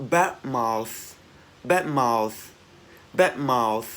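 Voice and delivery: "bad mouth" with a long airy TH at the end; teacher's model, crisp ending on "mouth"; released final TH. Shown as a demonstration. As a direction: push the breath out on the last sound of "mouth". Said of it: "cái âm T H mà chúng ta bật hơi ra".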